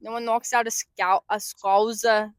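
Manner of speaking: hesitant attempt at Scouse, stretched ending; Scouse accent imitation. Imitating Paddy the Baddy for friend, Scouse accent. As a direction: try "Scouser" in put-on Scouse. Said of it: "He says it like that".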